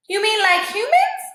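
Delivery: lightly scoffing stray; a hint of a high dog voice; Boss voice. A narrator's reading.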